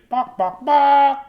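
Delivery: high squawking barks; chicken squawk. Acted. Chicken noise again.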